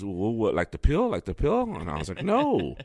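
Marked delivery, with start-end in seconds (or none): 0.0-1.6 high, loud confused vendor; baffled vendor. Retold or imitated. Vendor confused about acid. 2.2-2.7 a sudden high, loud no; shooting down the vendor's guess; emphatic no. Retold or imitated. Correcting the vendor, amused.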